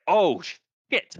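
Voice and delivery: high, loud mock panic; startled panic. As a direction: yelp it like a man caught under fire. Taliban surprised under fire.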